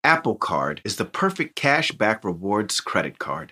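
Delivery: low, measured commercial delivery; ad read. Acted. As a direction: announce the product deliberately. Reads an advertisement.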